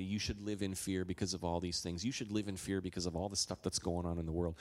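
low, lightly voiced accuser; a hint of a condemning whisper; condemning enemy voice. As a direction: murmur discouragement like a tempter. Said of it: "the voice of the enemy".

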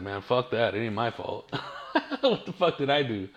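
mock grumpy older guy, laughing through it; half-laughing impression of a fed-up old man; laughing imitation. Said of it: "older people are just like".

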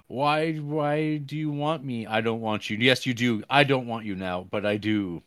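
hammed-up contrary protests; mock bickering. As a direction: act out both sides of a silly quarrel. Acting out the lovers' back and forth.

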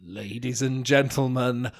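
tone the showman voice down; host announcer introducing the podcast, reined in; showman intro. Acted. Redo of intro quieter.

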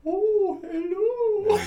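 very high, wailing ghost voice; hammed-up spooky falsetto. Player auditioning as the ship's ghost, high ghostly wail. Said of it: "Can anyone do a good ghost voice?".

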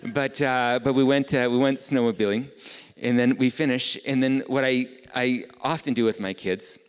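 a loud, high-pitched retelling of the snowmobile trip. Acted. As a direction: push it out, loud and lifted. Preacher builds excited story.

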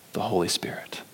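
hushed unvoiced whisper of the answer. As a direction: breathe it like a secret. Same answer repeated as whisper.

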